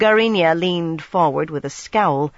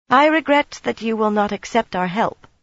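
cold; 6 semitones higher than usual. Acted. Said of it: "Mistress Corley said coldly".

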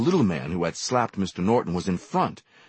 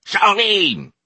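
higher, louder second call; louder repeated call; 13 semitones higher, 8 dB louder than usual. A narrator's reading. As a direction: yell her name up the stairs again. Calling again, louder.

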